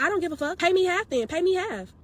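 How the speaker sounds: hammed-up stylist demanding half pay; mock angry demand. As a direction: bark it like the stylist.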